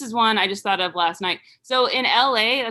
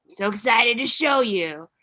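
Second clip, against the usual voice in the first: high, loud, bubbly YouTuber intro; happy YouTube host; 4 semitones higher, 5 dB louder than usual. Retold or imitated. Mocking YouTube hosts, high, gushing and cheerful. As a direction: gush like a relentlessly cheerful vlogger. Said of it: "they're like".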